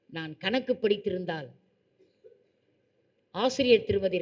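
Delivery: slow, measured formal oration; formal speech. Acted. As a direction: speak it like a stage address. (மெதுவான மேடைப் பேச்சு)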